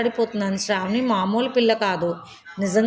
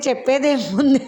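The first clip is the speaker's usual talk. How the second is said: laughing tease. Acted. Teasing with a laugh.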